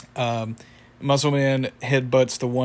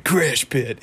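cartoon reply; 3 dB louder than usual. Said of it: "And then he's like".

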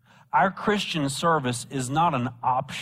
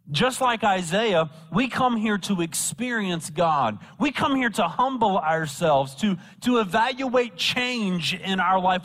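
raised pitch, rhythmic pulpit cadence; emphatic preaching; 5 semitones higher than usual. Real, not acted. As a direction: exhort the congregation in falling phrases. Preacher exhorting the congregation.

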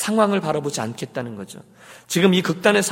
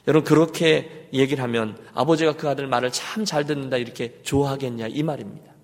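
ordinary talk

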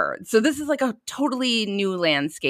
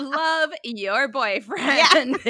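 slowly drawn-out, higher mock sweet voice; mock love note; 6 semitones higher, much slower than usual. An uncle imagines the boy's birthday card, mock sweet. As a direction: coo it like a lovesick kid. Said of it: "that's gonna be like".

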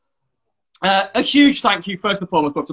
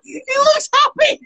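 laughing hard. Real, not acted. Laughing at the pained face.

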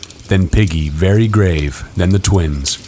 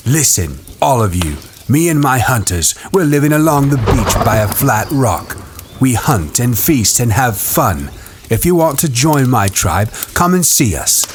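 commanding shout; 5 semitones higher than usual. A narrator's reading. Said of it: "began to shout".

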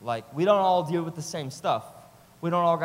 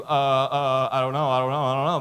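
loud, flustered stammer as a mock customer; indecisive customer; 3 semitones lower, 6 dB louder than usual. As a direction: play the customer who cannot pick, hammed-up. Flustered customer can't decide.

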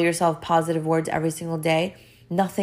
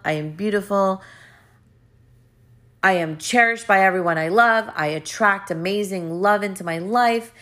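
upbeat self-affirmations; 3 semitones higher than usual. Shown as a demonstration. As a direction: proclaim each line like you believe it. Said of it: "I want you to talk out loud to yourself".

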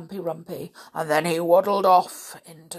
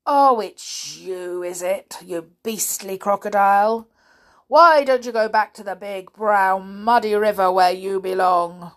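lightly voiced indignant elephant; loud, disdainful telling-off; scolding elephant; 7 dB louder than usual. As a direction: tell the intruder off loudly. Trunky the elephant figure.

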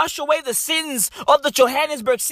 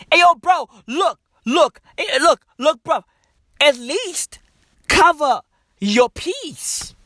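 raised voice yelling at a stranger; calling out; 4 semitones higher than usual. Retold or imitated. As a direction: holler across the street. Calling out to pisser.

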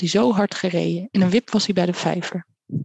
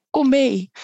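high, drawn-out urging call; 5 semitones higher than usual. A narrator's reading. Gull calling the krullevaar one last time, high urging call. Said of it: "maar toen Karel nog één keer riep".

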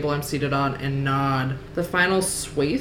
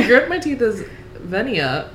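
laughing while reading; 5 semitones higher, 3 dB louder than usual. Real, not acted. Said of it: "You sound so much str-, as Venia".

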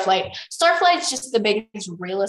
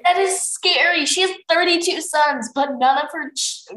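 high, loud incredulous outburst; real alarmed amazement; 9 semitones higher, 7 dB louder than usual. Real, not acted. Reader tells friend the shocking detail, incredulous. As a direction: exclaim it in disbelief. Reader reacts to grim plot fact.

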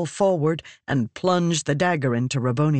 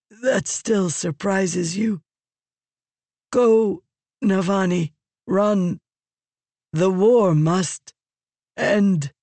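dying Raboniel's plea; 3 semitones higher than usual. A narrator's reading. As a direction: urge her to go with failing strength.

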